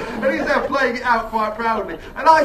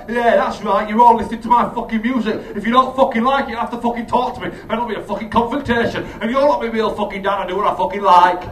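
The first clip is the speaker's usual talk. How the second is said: put-on implied teen swagger; 5 dB louder than usual. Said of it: "sort of like".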